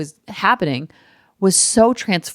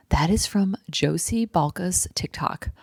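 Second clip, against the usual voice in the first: whispered aside; 6 dB quieter than usual. Real, not acted. Aside after the played clip.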